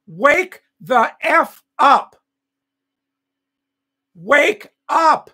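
loud, slow, furious yelling; real furious shout; angry shout. Real, not acted. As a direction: yell it at them to wake up. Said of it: "ranting at the audience".

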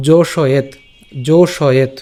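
জোশয়েত in distinct syllables, ending on a stopped t; careful Sanskrit pronunciation. Shown as a demonstration. Teacher starting the next line for viewers, careful pronunciation. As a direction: sound out জোশয়েত carefully, no vowel after t. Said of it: "এরপরের লাইনে আসি".

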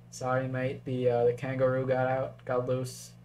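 second go at a badly faked Australian accent; shitty Australian accent. Game commentator joking about an escaped kangaroo, bad Australian accent. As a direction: put on a weak, mock Aussie accent. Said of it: "that was a shitty Australian accent".

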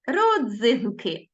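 Родзинки spoken slowly syllable by syllable; вимовити Родзинки повільно, по складах; slow sounded-out word. Shown as a demonstration. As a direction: draw out Родзинки for the class. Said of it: "Запам'ятайте, діти".

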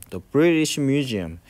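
British Museum very slowly; slow model phrase. Shown as a demonstration. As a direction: read it out slowly. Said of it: "teacher modelling". (천천히 또박또박)

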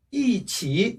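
"이" falling firmly, "치" in a dipping third tone; strong-weak tones. Shown as a demonstration. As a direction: hit "이" with a fourth-tone fall, ease into "치". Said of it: "그래서 강약".

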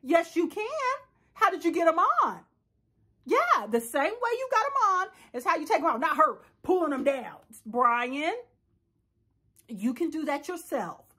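mild nurse coaxing a patient; patient-talk voice. Acted. Nurse telling Brian he can undress himself, lightly coaxing. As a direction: gently coax him along. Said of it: "talk to him like a patient".

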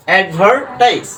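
অ্যাডভার্টাইজ spoken slowly and clearly; slow demo word. Shown as a demonstration. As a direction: model অ্যাডভার্টাইজ slowly for students. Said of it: "এখানে separate করি".

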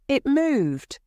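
sharp, high and loud insistence; he snaps back, refusing to be doubted; angry cry. A narrator's reading. Husband insisting to his doubting wife, crying out angrily. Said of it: "Mister White cried angrily".

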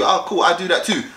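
cool, casual agreement; calm interest. Shown as a demonstration. Guy agreeing with a girl he just met, calm. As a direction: show mild interest without gushing. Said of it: "don't come across excited, man. Just be like".

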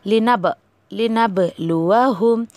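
slow "लिनबलुवहुम" with a bounced b; echoing qalqala on b. Shown as a demonstration. Quran teacher demonstrating the bounced b, slowly. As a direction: let the b in "लिनब" echo, slowly. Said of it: "ऐसे आपको कलकला करना है".

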